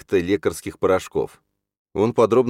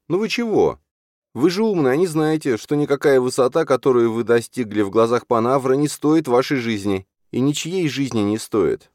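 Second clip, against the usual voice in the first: high, louder, exasperated appeal; heated pleading; 9 semitones higher, 4 dB louder than usual. A narrator's reading. Alzhana urging Lali to value his life, heated. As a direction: argue passionately, slowing to a firm close.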